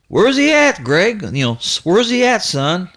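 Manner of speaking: high, urgent question from the father; dad calling out. Retold or imitated. Father coming out asking son about the dog, high urgent call.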